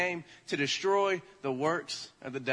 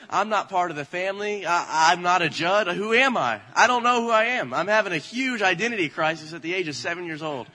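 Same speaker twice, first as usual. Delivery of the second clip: louder, hammed-up childish despair; mock panic; 5 dB louder than usual. Youngest child doubting the family is real, mock panicking. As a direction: retell a child's identity crisis, worked up. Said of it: "I'm freaking out".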